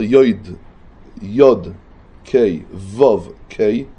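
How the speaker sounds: יויד, קיי, וו spoken one by one as yoid, kay, vov; letters with their vowels. Shown as a demonstration. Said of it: "איזה ניקוד אתה מוציא את האותיות".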